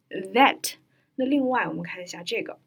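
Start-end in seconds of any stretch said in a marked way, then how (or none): 0.1-0.8 "that" begun with a V, like "vet"; clear V sound. Shown as a demonstration. Teacher shows lip position, "that" with V onset. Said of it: "上牙齿要抵到下嘴唇".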